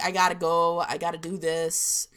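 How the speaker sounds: GOTTA for "got to", run together; slurred together. Shown as a demonstration. Showing own northeastern slurring, words run together. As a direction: slur "I gotta" loosely. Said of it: "I slur my words together a little bit".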